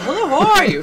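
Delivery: high, loud cheery hello; bubbly shop greeting. Retold or imitated. Shop girl greets English customer, loud cheery hello. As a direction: greet her with big pep.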